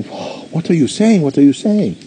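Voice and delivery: can't believe the good news; astonished. Retold or imitated. Widow hears of the buried money, high astonished disbelief.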